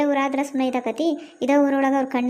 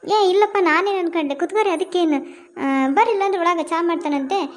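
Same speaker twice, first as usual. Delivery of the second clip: surprised protest; 3 semitones higher than usual. Acted. Neighbour protests, invites them to sit.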